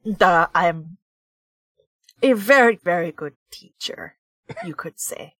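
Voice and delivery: put-on hammy Russian accent, low and gruff; lightly put-on Russian accent, low voice; bad Russian accent. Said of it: "my really bad Russian accent".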